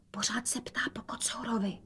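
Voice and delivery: soft unvoiced whisper. A narrator's reading. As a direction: whisper it secretly. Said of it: "dodala šeptem". (šeptem)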